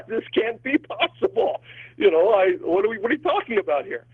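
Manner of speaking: high-pitched, incredulous retelling of a protest; acted disbelief. Priest voices Mary answering the angel, incredulous. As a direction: play baffled disbelief, pitched well up.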